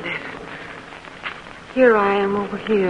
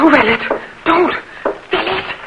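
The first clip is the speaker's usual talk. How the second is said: louder, higher pleading cry; frightened plea; 8 semitones higher, 4 dB louder than usual. Acted. Mother cries out begging her daughter to stay inside. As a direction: beg her not to go out.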